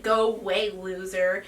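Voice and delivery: lightly sassy retold dismissal. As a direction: mimic a cheeky brush-off, dropping at the end. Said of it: "I was being all sassy".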